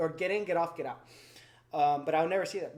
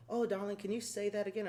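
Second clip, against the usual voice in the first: imitated Southern lady, pitched higher; Old South accent; 4 semitones higher, 3 dB quieter than usual. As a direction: lightly mimic a sweet-talking Southern accent. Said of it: "She had the Old South accent".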